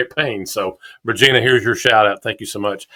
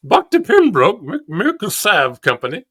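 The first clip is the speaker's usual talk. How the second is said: grand announcing; 11 semitones higher than usual. Real, not acted. Reading the old company name.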